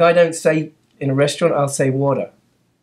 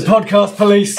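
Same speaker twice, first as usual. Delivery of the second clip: higher, mock-alarmed announcement; 5 semitones higher, 4 dB louder, slower than usual. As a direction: pretend the police are raiding you. Joking raid by police.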